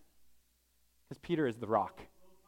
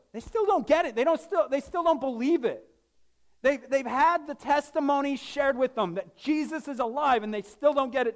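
exasperated preaching; 7 semitones higher than usual. Real, not acted.

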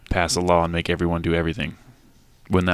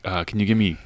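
put-on Asian accent. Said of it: "he said in an Asian accent".

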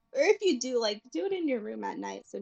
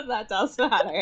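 laughing; 4 dB louder than usual. Real, not acted.

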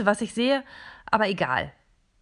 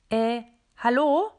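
high, slow, squeaky hallo; 4 semitones higher, 5 dB louder, slower than usual. Acted. Small robot greeting the plastic figures in a very high voice. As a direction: squeak out a shy hello. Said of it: "mit einer Stimme, die unglaublich hoch ist".

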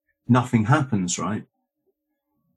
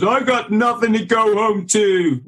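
much higher, louder film-hero line in a put-on voice; film quote voice; 10 semitones higher, 4 dB louder than usual. Guest quoting Officer and a Gentleman, in a high put-on voice. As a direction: quote the despairing hero from the movie. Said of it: "officer and a gentleman, isn't it? Who says".

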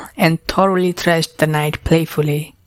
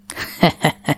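breathy dragon chuckle. A narrator's reading. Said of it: "the dragon chuckled".

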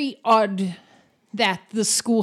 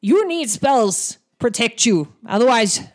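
growing warning from a big orc teacher; 4 dB louder than usual. Acted. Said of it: "He goes".

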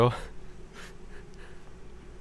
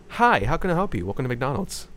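higher, chirpy fast-food cashier welcome; cashier greeting; 3 semitones higher than usual. Acted. Cashier greeting the customer in improv, chirpy and higher. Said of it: "improv McDonald's thing".

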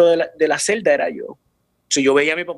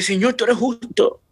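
higher and slower, a reenacted prayer; retold prayer to God; 7 semitones higher, slower than usual. Son recounts praying that God is just, higher and slower. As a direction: lift the pitch and slow down, declaring God just. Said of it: "Yo dije".

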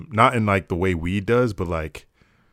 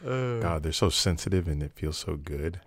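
soft, playful mock moan; hushed pretend arousal; 3 semitones lower, 6 dB quieter than usual. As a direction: murmur it like joking bedroom talk. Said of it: "don't, don't moan".

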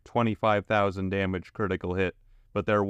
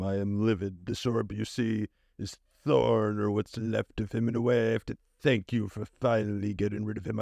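lightly voiced menacing boss; sinister boss monologue; villain boss voice. Dungeon boss speech quoted.

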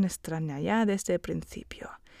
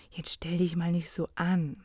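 soft intonation; 2 semitones lower than usual. Shown as a demonstration. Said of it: "Con una entonación suave".

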